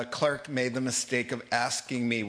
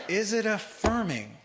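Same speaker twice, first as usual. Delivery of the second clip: higher echo; 8 semitones higher than usual. Retold or imitated. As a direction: repeat Is it affirming much higher, mulling it over. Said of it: "And so I said".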